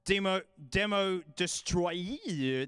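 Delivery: "Destroyer" with a long, swooping extra I sound; slow, playful stretch on "Destroyer". Shown as a demonstration. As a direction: draw out the end of "Destroyer" slowly as if spelt with an I. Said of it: "there's an I in there".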